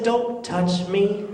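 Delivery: slow, drawn-out rebuff; icy refusal. Retold or imitated. Fiancée rejecting a hug, slow and cold. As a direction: stretch each word as a cold warning.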